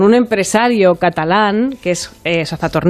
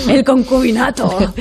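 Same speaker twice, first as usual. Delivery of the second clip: laughing; 4 semitones higher, slower than usual. Retold or imitated. Repeating clip line, amused.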